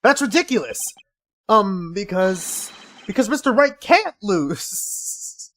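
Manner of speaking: high, slow outraged protest; indignant protest. Acted. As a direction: protest like a flustered lawyer. Defense attorney protests in court.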